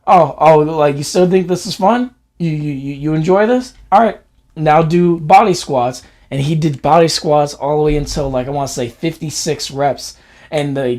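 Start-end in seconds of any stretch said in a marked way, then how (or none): 0.1-6.0 sarcastic dad. Retold or imitated. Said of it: "he's like".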